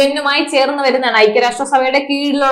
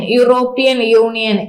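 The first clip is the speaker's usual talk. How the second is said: a slow teacher's repetition of European യൂണിയൻ; slow repeat for memory; slower than usual. Shown as a demonstration. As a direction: drill "European യൂണിയൻ" slowly so students memorise it. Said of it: "E U എന്ന് ഓർത്തു വയ്ക്കുക".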